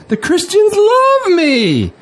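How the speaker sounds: slow, laughing through the words. Acted. Bob laughs off Madeline's worry about Christians, amused. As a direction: laugh off the concern as absurd.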